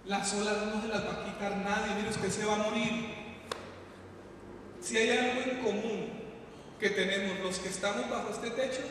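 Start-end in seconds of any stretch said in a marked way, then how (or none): none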